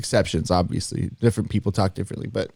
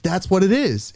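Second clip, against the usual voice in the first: realization; 10 semitones higher than usual. Retold or imitated. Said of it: "I was like".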